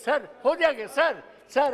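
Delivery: calling out loud. Real, not acted. Member calling out to the Speaker for a turn, loud. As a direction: call out to be heard over the house.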